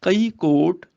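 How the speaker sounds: slow, measured verse reading; scripture recitation. Shown as a demonstration. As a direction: recite the sacred verse, drawing out the words.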